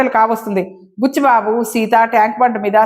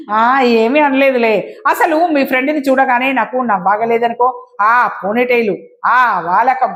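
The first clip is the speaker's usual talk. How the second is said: story narration. A narrator's reading. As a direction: read the story out, acting each character's lines. (నాటకీయంగా కథ చదివే స్వరం)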